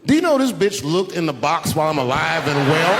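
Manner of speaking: high, loud indignant shouting; comic exasperated yell; incredulous outrage. Acted. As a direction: explode in disbelief, stretching the words. Outraged punchline about his wife.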